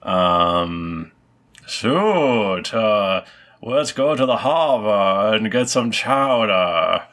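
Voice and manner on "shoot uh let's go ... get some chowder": lightly put-on upper-crust Boston accent; ridiculous Boston accent. GM voicing the Hendersons for the cat player, mild Boston accent. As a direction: GM hams up a thick Boston accent, mildly. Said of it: "a ridiculous Boston accent".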